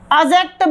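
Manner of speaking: "एडजेक्टिव" as a-JEK-tiv, no D; silent D. Shown as a demonstration. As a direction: drop the D from "एडजेक्टिव". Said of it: "उसको कभी नहीं बोला जाता". ("एडजेक्टिव" को अजेक्टिव, बिना ड)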